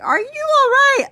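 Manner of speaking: high, loud worried question; mock-worried salon lady; concerned beautician. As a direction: ask it like an anxious beautician. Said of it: "and she's like".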